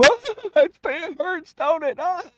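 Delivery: high, taunting put-on voice; mocking corpsman. Corpsman taunts the screaming recruit through the door, high mocking voice. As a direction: tease him in a high sing-song mock.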